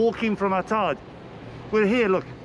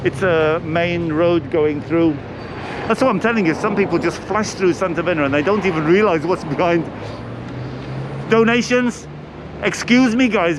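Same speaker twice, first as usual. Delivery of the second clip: raised voice over passing cars; loud over traffic; 3 semitones lower, 5 dB louder than usual. Real, not acted. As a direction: shout to be heard over the road. Busy road, shouting over traffic.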